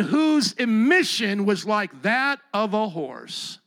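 deliberate, emphatic Bible reading; scripture reading. Acted. Preacher reads a shocking verse to his congregation, emphatic scripture reading. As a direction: read it out slowly, stressing each phrase.

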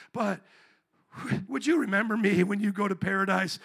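half-laughing awkward ask; sheepish thief. Pretend. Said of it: "And he's like".

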